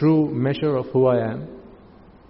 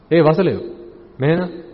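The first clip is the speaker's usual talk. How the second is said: lightly voiced blunt summons; a hint of a brusque old monk calling someone; a monk's blunt call; 2 semitones higher than usual. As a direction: call him over gruffly, only hinted. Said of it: "That's how he spoke".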